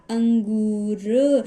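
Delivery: अंगूर split after "ang", long "oo"; slight pause. Shown as a demonstration. Teacher showing the nasal sign between two letters, slight pause. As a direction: pause briefly inside अंगूर, then stretch the end. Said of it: "थोड़ा सा pause देकर".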